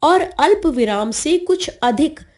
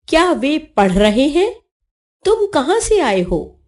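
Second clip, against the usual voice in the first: higher-pitched questions, रहे हैं lifting at the end; questioning tune; 3 semitones higher than usual. Shown as a demonstration. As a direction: ask it, pitch climbing on पढ़ रहे हैं. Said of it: "प्रश्नसूचक वाक्यों के अंत में".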